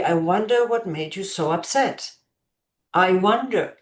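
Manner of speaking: put-on gently curious, as to an upset child; mild, caring curiosity; interested wondering. Shown as a demonstration. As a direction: wonder aloud with real interest. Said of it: "Expressing, "I'm interested in understanding".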